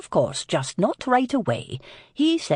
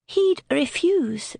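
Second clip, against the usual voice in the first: stiff tone; 9 semitones higher, slower than usual. A narrator's reading. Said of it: "Dahlia finished in a stiff tone".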